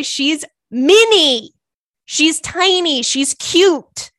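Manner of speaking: high cutesy voice cooing over Minnie; cutesy gush. Pretend. Host cooing over the original Minnie, high and cute. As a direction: coo it like she's adorable.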